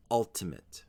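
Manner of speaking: "ultimate" as UL-tuh-mit; first-syllable stress. Shown as a demonstration. Teacher modelling the word for learners, "ultimate" stressed on UL. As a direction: put the weight on UL in "ultimate". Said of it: "with the stress on the first syllable".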